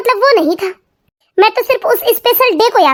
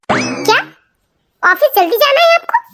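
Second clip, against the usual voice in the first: shocked; 6 semitones higher than usual. Acted. Wife stunned that husband is going to office, high shocked voice. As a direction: pitch shoots way up in disbelief.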